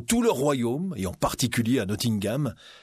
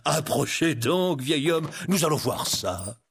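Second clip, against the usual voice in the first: teasing, drawn-out invitation; playful; 3 semitones higher, slower than usual. Acted. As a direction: lure the old man closer, toying with him. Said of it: "demanda le shérif joueur".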